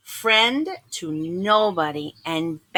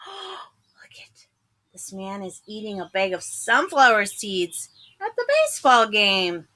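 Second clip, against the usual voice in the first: frightened whisper. Acted. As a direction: gasp then unvoiced whisper. Sees giant eating seeds.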